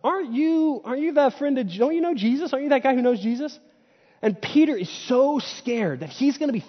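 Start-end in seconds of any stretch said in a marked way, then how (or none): 0.0-3.6 put-on a higher, light little-girl voice, questioning; lightly voiced girl asking curiously. Little girl questioning Peter by the fire, lightly voiced and higher. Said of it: "A little girl comes up to Peter and says".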